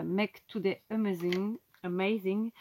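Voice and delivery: English words with a French accent; slow English in a French accent; accent français en anglais. Real, not acted. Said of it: "avec mon bel accent". (anglais prononcé avec l'accent français)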